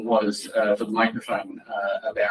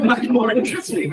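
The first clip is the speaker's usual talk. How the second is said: laughing; 12 semitones higher, 3 dB louder than usual. Real, not acted. Joking about a bigger problem.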